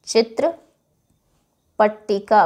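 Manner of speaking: चित्रपट्टिका drawn out syllable by syllable; slow syllable-by-syllable. Shown as a demonstration. Teacher repeating चित्रपट्टिका slowly so students can write it. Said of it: "उसे बोलते हैं चित्रपट्टिका".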